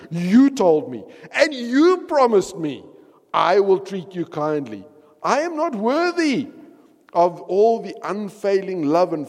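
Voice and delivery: earnest pleading emphasis; emphatic prayer. Acted. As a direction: press each claim on God.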